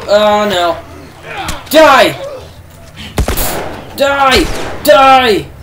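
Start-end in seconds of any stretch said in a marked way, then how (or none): 1.7-5.5 yelling die. Real, not acted. Gamer yelling at a clicker, furious shouts. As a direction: blast each word out as you fire. Shooting zombies in panic.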